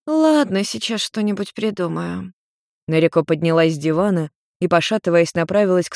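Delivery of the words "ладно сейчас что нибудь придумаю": lightly voiced mother giving in. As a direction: give in with a tipsy sigh. Nariko gives in.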